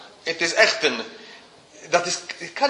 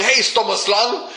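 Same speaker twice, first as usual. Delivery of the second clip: slow, high, raised scornful call; mock calling the snake; 7 semitones higher, slower than usual. God scolding the stupid snake, a slow high call. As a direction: drag it out like scolding a dumb snake. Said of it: "Hij roept niet naar de slang".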